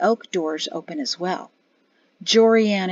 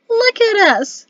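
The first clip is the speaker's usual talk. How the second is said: high, drawn-out wail, voiced rather than truly whispered; hushed wail; 12 semitones higher, 6 dB louder, slower than usual. A narrator's reading. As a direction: wail it slowly in dismay. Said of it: "she wailed in a whisper".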